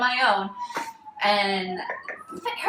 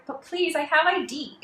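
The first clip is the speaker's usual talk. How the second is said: high-pitched little plea breaking into laughter; mock pleading; 8 semitones higher than usual. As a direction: plead meekly, voice up, half laughing. Retold plea to hostile official.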